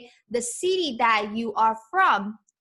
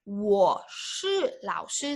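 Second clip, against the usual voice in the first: slow model phrase; 3 semitones lower, slower than usual. Shown as a demonstration. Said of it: "teacher models the phrase slowly".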